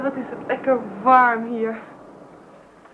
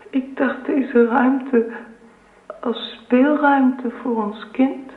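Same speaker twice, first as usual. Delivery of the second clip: tender hint; 3 semitones higher, much slower than usual. Acted. Wife hints at her pregnancy.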